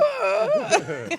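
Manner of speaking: very high, loud startled yelp; high squeal of a scared baby; baby's startled cry. Retold or imitated. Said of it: "And he was like".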